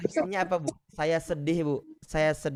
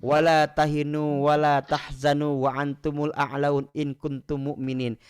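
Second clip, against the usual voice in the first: Quran recitation; 2 semitones lower than usual. Acted. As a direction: recite it like tilawah.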